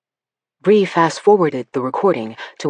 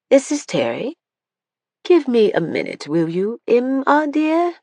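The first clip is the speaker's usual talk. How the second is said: replayed Alcott phone line; 8 semitones higher than usual. A narrator's reading.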